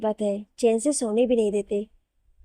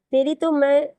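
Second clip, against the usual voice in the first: a half-finished angry threat, a bit raised; 4 semitones higher, 4 dB louder than usual. Acted. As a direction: start to threaten her, then break off. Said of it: "सरताज गुस्से से उसके पास जाते हुए".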